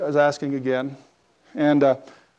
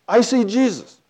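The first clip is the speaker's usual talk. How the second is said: imitated crying woman; 7 semitones higher than usual. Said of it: "She's just crying".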